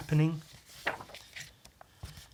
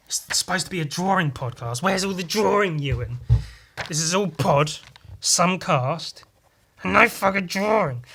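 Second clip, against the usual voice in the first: mock outrage; 4 semitones higher, 4 dB louder than usual. Mock complaint to himself.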